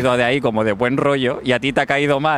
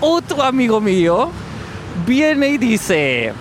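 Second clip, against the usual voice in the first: put-on French-accented Spanish, raised pitch; 6 semitones higher than usual. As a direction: lay on a thick French accent. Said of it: "tengo un acento raro de Francia".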